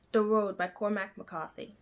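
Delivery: lightly put-on British accent, r dropped in McCarthy. Vlogger confidently redoing the author's name, in a British accent. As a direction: act as if the British accent is normal. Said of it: "in a British accent".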